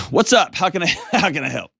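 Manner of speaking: real laughter breaking into the question; laughing through it. Real, not acted. Host laughing at own accent.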